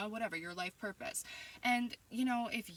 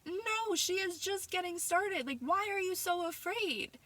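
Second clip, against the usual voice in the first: higher, slow, fervent insistence; emotional declaration; 10 semitones higher, 5 dB louder, slower than usual. Real, not acted. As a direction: proclaim it with rising passion. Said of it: "I'm getting emotional thinking about it".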